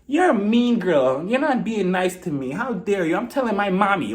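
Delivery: put-on drawn-out babyish name-calling; mock childish taunting. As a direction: whine slowly like an offended little kid. Mocking babyish name-calling in argument.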